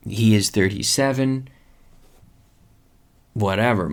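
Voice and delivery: ordinary delivery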